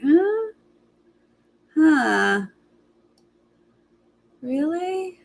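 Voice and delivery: high, questioning little noises; mock puzzlement. Recapper acting her response to trick or treat, high puzzled disbelief. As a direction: imitate someone baffled by a suggestion, lifting high.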